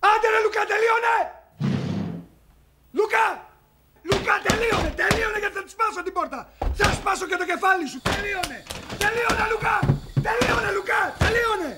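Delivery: exasperated calling through a closed door; fed-up yell to hurry up; impatient shouting. Acted. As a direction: keep calling out, urging and threatening. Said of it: "Ένα τέταρτο φωνάζω απ' έξω".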